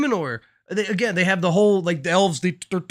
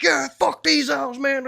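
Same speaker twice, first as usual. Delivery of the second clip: mock angry shout; 5 semitones higher, slower than usual. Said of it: "they're like".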